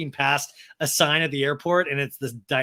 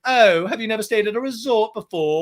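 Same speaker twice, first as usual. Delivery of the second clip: higher, louder put-on voice; mock condescension, pitched up; G J J K impression; 5 semitones higher, 5 dB louder than usual. Man needling a woman about resorts, mock condescending. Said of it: "G J J K is like".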